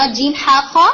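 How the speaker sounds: جیم ہا خا recited one by one; حروف تہجی گن کر; letter names recited. Shown as a demonstration. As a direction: list the letters like an alphabet lesson. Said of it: "دوسرا والا ہا".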